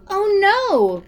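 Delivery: loud, high hammed-up boom; the troll booming back at George. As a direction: boom it out big. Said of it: "boomed the troll".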